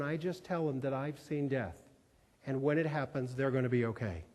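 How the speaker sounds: quiet, understated reassurance; tender reassurance. Retold or imitated. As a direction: comfort gently, without drama. Cleaning woman's tender retold testimony.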